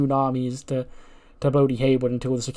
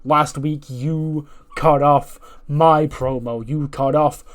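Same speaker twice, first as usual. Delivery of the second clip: Ethan Page promo; 3 dB louder than usual. Retold or imitated. Wrestler confronting Paul Heyman, indignant demand. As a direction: demand an apology with wounded pride. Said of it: "he goes".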